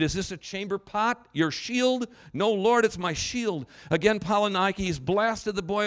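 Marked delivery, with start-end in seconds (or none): 0.0-2.1 raised, high-pitched interrogation; screamed question. Acted. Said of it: "he screamed". 2.3-3.7 loud, raised reply to an officer; recruit's answer. Acted.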